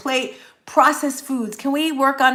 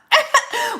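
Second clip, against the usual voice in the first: laugh; 13 semitones higher, 4 dB louder than usual. Real, not acted. Laughs at herself.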